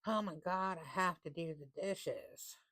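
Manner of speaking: mildly whiny, slow complaint about chores; a touch of mock grumbling; complaining. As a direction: sigh it out like a put-upon chore. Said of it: "Instead of saying".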